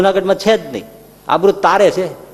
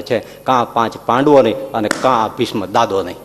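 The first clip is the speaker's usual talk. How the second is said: grim vow, low; 5 semitones lower than usual. Retold or imitated. Bhishma vows grimly.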